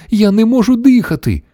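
very high, distressed granny cry; moaning. A narrator's reading. Grandmother unable to breathe, high distressed moan. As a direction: groan it high, as if choking. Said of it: "застогнала бабуся Джорджина".

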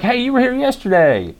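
a casual imitation of the guy greeting him; mimicking the host. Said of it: "This guy was like".

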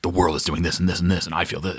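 low, fast mock movie dialogue; lightly mocking film-character voice; imitating film characters. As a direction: rattle it off low, mimicking the characters. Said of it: "when everybody's just like".

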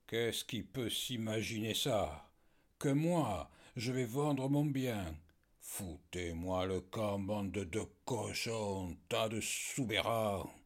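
furious outburst. Acted. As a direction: spit the insults in fury. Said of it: "Il était rouge de fureur". (colère furieuse, lente et forte)

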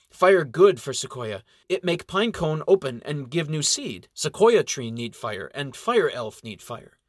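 broken-English elf explaining. Acted. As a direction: patiently explain in pidgin. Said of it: "Lynx explains".

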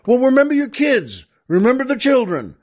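high, eager shout upward; oil man shouts up at the jumper. Acted. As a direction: call it up high, pleading. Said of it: "He just shouts out".

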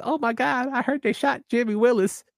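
high, breathless gossipy woman voice; mock-shocked townswoman gasping the news; imitating the lady. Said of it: "I loved your impression".

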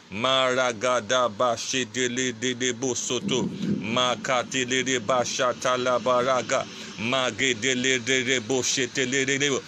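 fervent tongues prayer, steady rhythm; speaking in tongues. Real, not acted. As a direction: pray in tongues with fervour.

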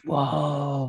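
drawn-out awed whoa; mildly acted amazement; imitated disbelief. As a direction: imitate a stunned stranger. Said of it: "he just couldn't believe".

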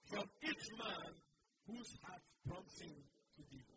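loud, slowing on "from each man"; loud preaching read of scripture; preached scripture. Acted. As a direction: proclaim the verse, slowing down. Preacher reading scripture with force.

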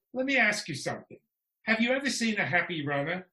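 a hint of a Swedish friend, teasing; mild Swedish accent. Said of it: "I'll try and do a Swedish accent".

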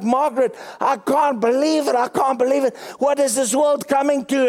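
put-on high, exasperated old man complaint; flustered old husband. Husband complaining to Margaret about traffic, high exasperated voice. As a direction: wail in disbelief at the other driver. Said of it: "And he's like".

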